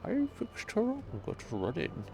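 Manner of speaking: put-on shaky old voice. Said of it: "To do an old man voice is like having a suck".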